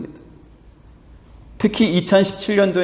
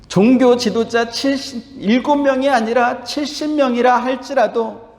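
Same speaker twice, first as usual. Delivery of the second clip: fervent preaching; 6 semitones higher than usual. Acted. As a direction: preach it to the whole congregation. Preaching at full force.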